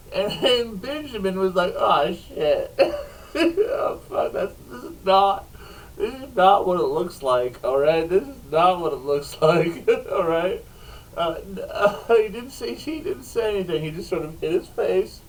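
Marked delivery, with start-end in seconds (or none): 1.8-2.8 laughing. Retold or imitated. Caught red-handed, laughing. 3.4-10.6 laughing panic. Retold or imitated. Caught, pleading through laughter.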